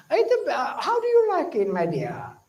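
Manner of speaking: a kind, caring son; sweet asking. Retold or imitated. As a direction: gently ask the mother, pitch swooping up then far down. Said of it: "I would ask mother".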